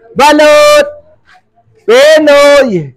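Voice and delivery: hawker's shout out to the street; vendor's call. Real, not acted. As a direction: street vendor crying balot. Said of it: "Sigawan natin dito".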